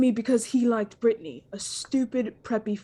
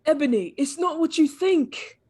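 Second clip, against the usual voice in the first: sad plea; 5 semitones higher, 3 dB louder than usual. Acted. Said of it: "Draco screamed sadly".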